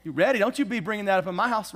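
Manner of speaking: a touch of spouse snapping back; mock defensive comeback. Spouse hearing something heartfelt, a mock defensive comeback. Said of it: "your first thing is".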